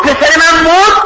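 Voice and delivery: high, drawn-out disbelief; retold shocked question. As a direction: act out hearing terrible news. Mother hears of son's death.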